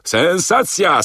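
high, slow barker call, falling off; barker cry. Acted. Narrator voicing the poster's cry, first take drawn out. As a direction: stretch the first call out slowly.

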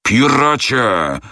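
captain bellowing at his passenger; furious yell. A narrator's reading. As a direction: hurl the insult at him. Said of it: "wrzasnął Andrew Speedy".

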